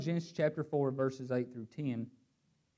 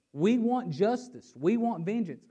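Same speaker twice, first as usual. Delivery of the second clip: raised, louder demand for justice; crying out; 6 semitones higher, 5 dB louder than usual. Acted. Preacher voicing mankind's cry for vengeance, crying out. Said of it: "that's what we tend to cry out".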